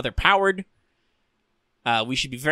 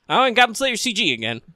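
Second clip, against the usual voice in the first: higher, whiny mock dismay; exasperated complaint; 8 semitones higher than usual. Fan griping at the CG showing up once more, exasperated. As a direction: groan about it in a raised pitch. Mocking his recurring CG complaint.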